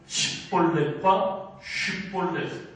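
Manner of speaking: 십볼렛 and 쉿볼렛 said slowly to contrast the sounds; 십볼렛 then 쉿볼렛, each sounded out slowly; shibboleth contrast. Shown as a demonstration. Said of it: "발음을 하느냐, 못하느냐". (십볼렛과 쉿볼렛을 천천히 대비해 발음)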